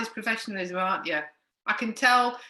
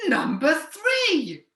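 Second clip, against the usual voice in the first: bingo caller; 5 semitones higher, much slower than usual. Acted. Drawn-out bingo call.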